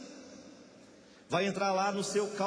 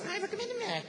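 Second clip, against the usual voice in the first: mock high whiny voice; 13 semitones higher, 3 dB quieter than usual. Mocking a tempted churchgoer.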